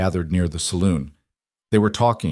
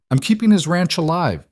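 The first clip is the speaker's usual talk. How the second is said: shouting back; 9 semitones higher than usual. Acted. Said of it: "Mara shouted back, her voice cracking".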